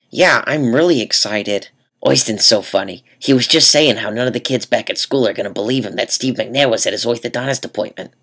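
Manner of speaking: a hint of a chatty mom; lightly voiced proud mom. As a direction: mom bragging about her son to the nurse. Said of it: "that's just the voice I do for my mom".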